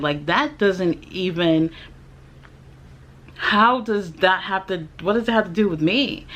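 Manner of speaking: replaying an indignant rant at the doctor; retold outrage. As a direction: throw the question back at him, outraged. Angry retort to the doctor.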